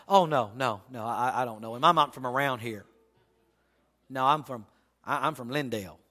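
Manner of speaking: low, soft nervous backpedalling; sheepish denial. Acted. Peter denying Jesus to a stranger, low and soft. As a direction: mumble the excuse, low and soft, trying to slip away.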